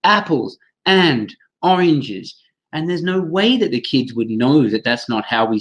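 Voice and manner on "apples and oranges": slow, each word pointed at separately, "Apples and oranges.". Shown as a demonstration. Teacher mocking word-by-word reading of "Apples and oranges". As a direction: lay each word down separately like a board drill. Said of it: "point at each word and say".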